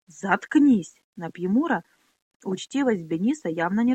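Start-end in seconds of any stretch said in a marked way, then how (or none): 0.1-1.0 loud shut up. Acted. Benis cuts the boy off.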